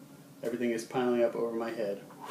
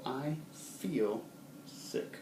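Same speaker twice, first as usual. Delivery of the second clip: feeling sick; 2 semitones higher, 6 dB quieter, much slower than usual. Shown as a demonstration. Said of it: "express that with feeling".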